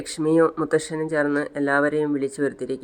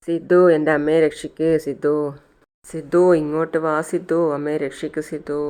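retold calling out; 4 dB louder than usual. Malar calls Siddhu to save her mother, pleading mock call. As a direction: imitate a child calling to someone outside. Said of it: "മലർ വിളിക്കുന്നത്".

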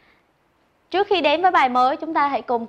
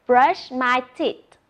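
slow model word; much slower than usual. Shown as a demonstration. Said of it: "Look at the picture and say".

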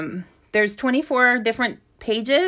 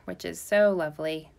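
dry sarcastic remark; 3 semitones lower, 4 dB quieter than usual. Real, not acted. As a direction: say it with heavy sarcasm. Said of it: "with a very sarcastic tone in my voice".

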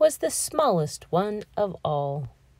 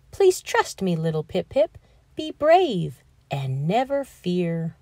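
gentle coaxing mommy. Acted. Mommy reassures little Pip-Pip at the edge, gentle and soothing. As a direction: coax a scared child toward the water.

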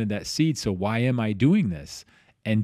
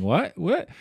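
disbelief; 9 semitones higher than usual. Retold or imitated. Stunned reaction to job offer.

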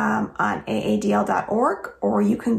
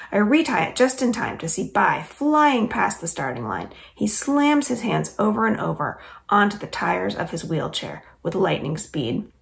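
lively read-aloud storytelling voice; story narration. A narrator's reading. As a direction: read it like a children's chapter book. Reads chapter aloud.

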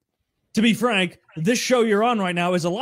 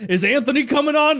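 curious fan voice; 9 semitones higher, 4 dB louder than usual. Retold or imitated. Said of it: "people were like".

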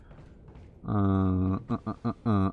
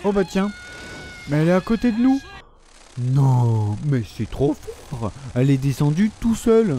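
startled surprise; 3 semitones higher than usual. Real, not acted. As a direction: caught off guard, half laughing. Monster suddenly beside him.

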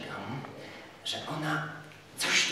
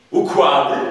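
shout; 8 dB louder than usual. Acted. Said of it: "krzyknął sędzia z niezwykłym zapałem".

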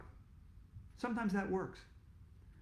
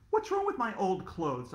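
put-on louder kid call back downstairs; hollering back; 4 semitones higher, 4 dB louder than usual. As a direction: holler a complaint upward. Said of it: "I hollered back".

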